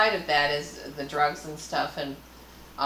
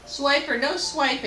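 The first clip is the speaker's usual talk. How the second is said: high, slow sing-song chant of the cartoon line; playful imitation of a kids' show catchphrase; Dora the Explorer catchphrase; 10 semitones higher than usual. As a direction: lightly mimic the cartoon fox warning. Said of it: "Dora the Explorer".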